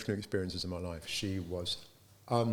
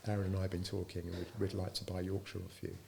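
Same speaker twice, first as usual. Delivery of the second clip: sheepish; 5 dB quieter than usual. Retold or imitated. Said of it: "really sheepishly and said".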